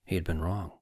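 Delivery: a stunned whisper to yourself; hushed whisper. A narrator's reading. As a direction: breathe it out, unvoiced, in shock. Narrator stunned realization.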